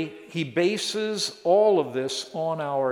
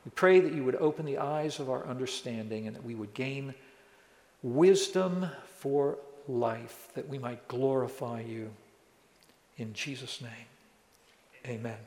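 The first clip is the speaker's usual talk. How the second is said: prayer. Real, not acted. Closing prayer before the sermon.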